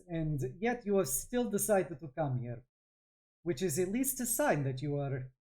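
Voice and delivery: put-on thick Von Yaskin accent. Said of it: "her having a very thick Von Yaskin accent".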